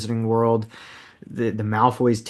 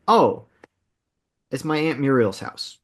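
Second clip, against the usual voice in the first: bad British accent. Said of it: "That was a terrible British accent".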